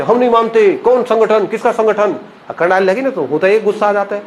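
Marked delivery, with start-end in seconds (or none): 0.0-2.1 imitated shouting. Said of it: "पहले एक दो बार चिल्लाया वैसे".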